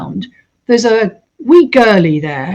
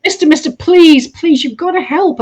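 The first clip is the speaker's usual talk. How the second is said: put-on desperate pleading girl; 7 semitones higher than usual. Tied girl begging again.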